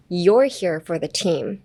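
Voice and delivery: "You're" drawn out and leaned on; slow line, weight on "You're"; stress on "You're". Shown as a demonstration. Teacher models the week's phrase, stressing "You're". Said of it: "I would put emphasis on the your".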